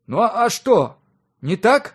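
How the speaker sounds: high, loud defiant retort; snapping back. A narrator's reading. Son talking back to his glaring father, snapping. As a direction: snap back defensively, pitch jumping up. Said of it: "огрызнулся тот".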